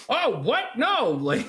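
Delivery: 2 very high, yelped mock terror; 3 squeak out the terror as the witch climbs; 1 mock panic. 4 retelling the witch crawling up the shaft, high panic. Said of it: "It's like".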